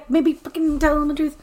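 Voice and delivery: high, put-on sassy voice; mock snippy retort. Rain telling Megan off, high and sassy. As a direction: snap it like an annoyed sister.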